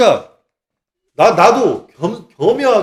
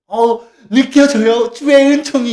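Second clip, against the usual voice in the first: slow, higher, louder swooning; fake rapture; 5 semitones higher, 6 dB louder, slower than usual. A paid plant fakes feeling grace, slow and swooning. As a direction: overplay the holy feeling. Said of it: "얘는 돈 받은 애인데".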